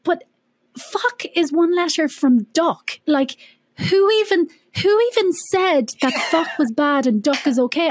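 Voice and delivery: lightly voiced indignant child; child protesting. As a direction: play the cheeky kid questioning the rule. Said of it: "I used to be like".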